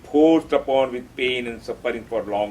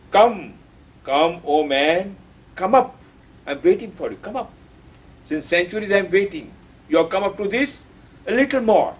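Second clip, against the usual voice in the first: higher, beckoning call to climb; voice calling from above; 4 semitones higher than usual. Acted. The higher consciousness calling man upward, high and beckoning. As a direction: call out to mankind as the waiting summit. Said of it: "It calls us".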